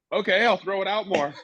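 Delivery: high, laughing sheepish compliance; giving in with a nervous laugh; meek laughing reply. Retold or imitated. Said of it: "And I went".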